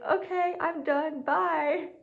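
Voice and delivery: retold high-pitched quick exit line; hurried bail-out. Bailing from the microphone before tears come, hurried bail-out.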